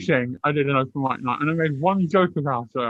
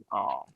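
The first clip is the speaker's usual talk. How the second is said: audience "oh"; 12 semitones lower, 9 dB quieter than usual. Retold or imitated. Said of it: "the whole audience goes".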